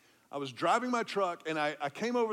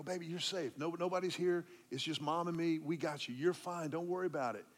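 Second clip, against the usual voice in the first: softer, tender soothing; calm her down; gentle comfort; 5 dB quieter than usual. Retold or imitated. Father comforting frightened child.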